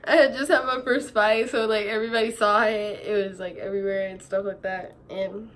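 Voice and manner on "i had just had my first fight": laughing through the words. Real, not acted. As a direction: laugh while saying it. Laughing at her own story.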